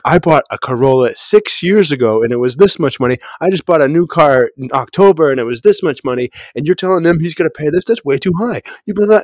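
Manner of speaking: a friend rising into outrage as she retells it; retold yelling. Friend retelling how Dylan yelled at the car salesman, building indignant rant. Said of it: "Dylan yelled at him".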